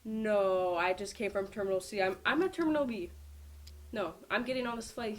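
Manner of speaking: loud, insistent denial; insistent protest. Retold or imitated. Arguing with the airport worker, loud protest. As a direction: push back hard and loud. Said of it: "And I was like".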